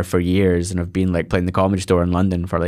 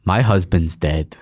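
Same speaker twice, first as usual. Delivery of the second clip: deadpan quote from mum; 3 semitones lower, slower than usual. Retold or imitated. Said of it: "looked at Michael McIntyre and said".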